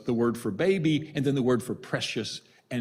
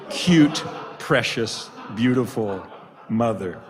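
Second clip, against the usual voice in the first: 1 mock cooing compliment; 6 dB louder than usual. Punchline of his mistaken compliment.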